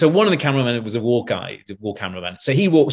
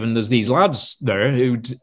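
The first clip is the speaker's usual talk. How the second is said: ordinary talk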